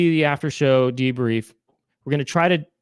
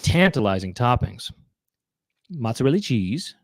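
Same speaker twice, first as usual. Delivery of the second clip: lightly voiced comedian's sales pitch; Tommy Davidson. Comedian selling you the P-Zone, lightly voiced salesman impression. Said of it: "That's my impression of Tommy Davidson".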